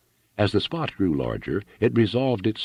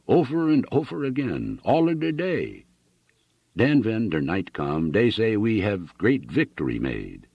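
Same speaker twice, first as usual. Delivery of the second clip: put-on thick German immigrant accent, old soldier reminiscing; a German farmer retelling the battle in heavy accent; 3 semitones higher than usual. Old German veteran tells Annixter of the war, heavy German accent.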